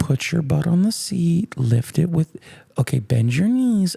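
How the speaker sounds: bossy helper giving step-by-step orders; lightly hammed-up riding coach; imitating instructions. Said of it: "she goes".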